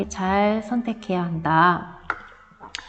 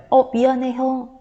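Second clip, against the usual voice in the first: meek apology; 4 semitones higher than usual. Retold or imitated. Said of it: "동생이 어떻겠어요".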